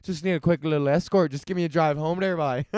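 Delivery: quick, casual fake Newfoundland accent; badly faked Newfie wheedling; mock Newfie accent. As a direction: rattle it off like a hammed-up Newfie. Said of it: "in Newfoundland".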